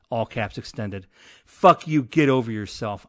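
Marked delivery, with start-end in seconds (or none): 1.5-3.1 mock angry outburst. Reading angry email aloud.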